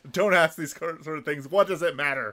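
half-shouted impatient rebuke, acted out; mock scolding yell. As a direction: scold as if imitating someone screaming. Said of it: "he screams at her for being stupid".

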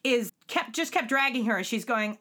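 normal talking voice

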